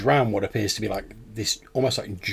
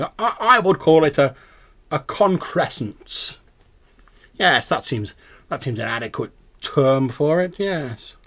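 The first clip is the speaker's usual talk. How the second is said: scholarly owl, rising high on key words; pedantic owl; 4 semitones higher, 4 dB louder than usual. Acted. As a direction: savour the term like an owl professor. Game master plays the owl.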